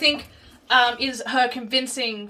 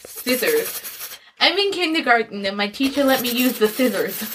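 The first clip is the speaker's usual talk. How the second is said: put-on lisping little kid. Kid lisping the word scissors.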